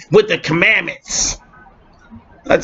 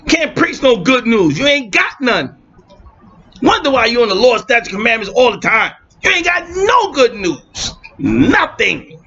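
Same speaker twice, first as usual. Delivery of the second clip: fired-up preaching; 5 semitones higher than usual. Real, not acted. Preaching rant, shouted end.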